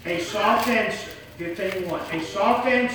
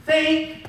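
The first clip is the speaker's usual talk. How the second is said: "Think" called out high and loud; one stressed word, "Think"; emphatic think; 8 semitones higher, 5 dB louder than usual. Shown as a demonstration. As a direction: punch out "Think". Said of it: "Here's number five".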